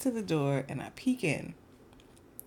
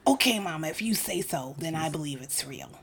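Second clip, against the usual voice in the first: lightly voiced little son; lisping little boy. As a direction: imitate a child giving in, with a slight lisp. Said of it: "he has a little bit of a lisp".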